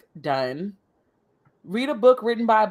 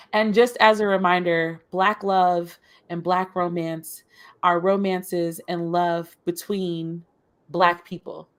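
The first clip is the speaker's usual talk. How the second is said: radio voice; 3 semitones lower than usual. Acted. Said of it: "You, like, bust out the radio voice".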